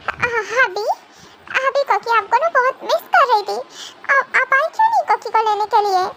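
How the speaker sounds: put-on a little girl complaining sweetly; childish sulk. (बच्चे जैसी रूठी आवाज़)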